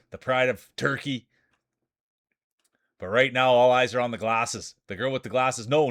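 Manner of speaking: excited marble race commentary, building with the lead; race play-by-play. Acted. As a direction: call the race like a sports announcer.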